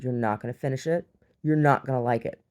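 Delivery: insistent mock-angry warning; angry mom. Mom warning child about the egg, mock angry. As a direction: lay down the law as an irritated mother. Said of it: "she's, like, angry".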